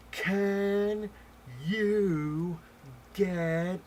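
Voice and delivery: high, loud, one word at a time; mock over-enunciated yell; loud, spelled-out shouting. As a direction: shout word by word at someone hard of hearing. Lady talking to supposedly deaf man.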